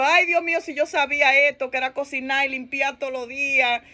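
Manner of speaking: lightly whiny imitation of regret; mock lament. New wife regretting the cooking and cleaning, mock lament. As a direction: complain in mild mock despair. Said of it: "Entonces comienza otra lloradera".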